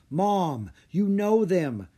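high, pleading insistence; urgent insistence. A narrator's reading. Son to disbelieving mother, insisting urgently. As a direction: press her to remember.

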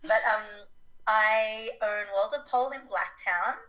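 hoarse voice after being sick; raspy recovering voice; smoker's rasp. Real, not acted. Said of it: "my voice is still recovering".

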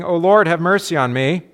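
loud pleading cry, hammed up; mock scream in church. A worshipper screaming for mercy, hammed-up loud cry. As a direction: call out like a stranger interrupting church. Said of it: "someone screaming".

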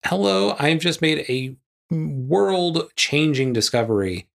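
high, bright proud announcement; mock scientist announcement. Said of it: "she should be smart enough to be like".

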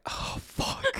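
hushed, breathy oh fuck under the breath; a whispered panicked oh fuck; whispered curse. Retold or imitated. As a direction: mutter it in shock, barely voiced. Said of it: "And I was like".

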